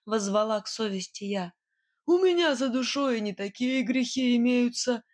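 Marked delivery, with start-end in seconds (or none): 2.1-5.0 a touch of a snarl, raised; baring teeth. A narrator's reading. Nightingale threatening the witch: snarling menace. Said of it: "ощерился он".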